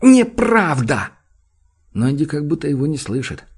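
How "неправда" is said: furious shout. A narrator's reading. Джуд кричит в ответ.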